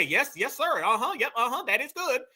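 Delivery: lightly mimicked everyday English chatter; quick mock agreeable murmurs; imitated English talker. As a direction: play someone chatting away in English. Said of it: "they'll talk English all day".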